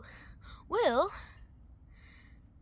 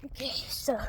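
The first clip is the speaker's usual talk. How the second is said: whisper. Real, not acted. Whispered aside before recap.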